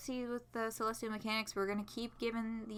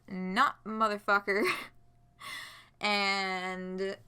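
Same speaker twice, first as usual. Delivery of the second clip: usual speaking voice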